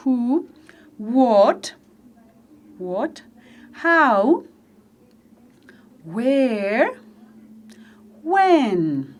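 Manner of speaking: each word said alone for the class to echo; "who", "what", "how", "where", "when" spaced out for echoing; model for repeating. Shown as a demonstration. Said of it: "repeat, repitan conmigo". (la maestra modela las palabras para que la clase repita)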